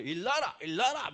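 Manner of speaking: imitating mom's Gyeongsang wake-up call; a light Gyeongsang "일 놔라", mom rousing the kids; 경상도 사투리로 엄마 흉내; Gyeongsang dialect. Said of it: "경상도 사투리".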